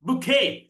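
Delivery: ബുക്കേ with "bu" and stressed "kay"; weight on the end of ബുക്കേ; correct English pronunciation. Shown as a demonstration. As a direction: model ബുക്കേ, long final vowel. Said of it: "ബൊക്കെ അല്ല".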